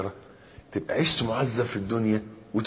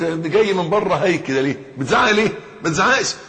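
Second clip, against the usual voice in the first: higher-pitched nagging wife impression; quarrelling wife; 5 semitones higher, 3 dB louder than usual. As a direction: scold him like an exasperated wife. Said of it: "هي تقول لك".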